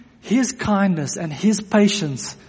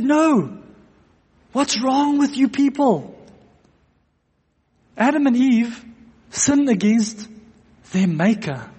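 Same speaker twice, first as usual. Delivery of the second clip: higher, firmer rebuke, no joke this time; retold insistent rebuke; 4 semitones higher than usual. Sproul repeating himself after laughter, insistent retold rebuke. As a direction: insist he means it, deadly serious. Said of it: "they thought he was joking".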